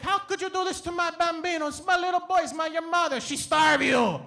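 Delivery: Italian nonna. Retold or imitated. Nonna scolding mom over her starved grandsons, high and indignant. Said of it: "She'd be like".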